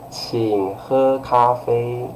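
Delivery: very slow, courteous phrasing; polite request. Shown as a demonstration. Teacher demonstrating good manners, polite. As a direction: stretch it out as a well-mannered invitation. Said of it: "polite way".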